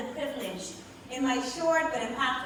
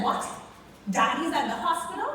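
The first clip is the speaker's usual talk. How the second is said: higher and louder, sudden alarm; alarmed surprise; 6 semitones higher, 3 dB louder than usual. Retold or imitated. Daughter hearing her dad is in hospital, alarmed. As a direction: snap to attention in shock.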